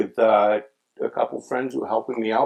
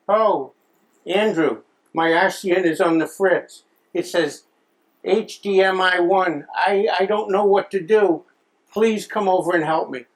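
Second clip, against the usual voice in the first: high, loud, pleading mother voice; hammed-up helpless mom on the phone; poor widowed mom; 8 semitones higher, 4 dB louder than usual. Widowed mom phones her son for help, plaintive and high. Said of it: "all these poor widowed moms".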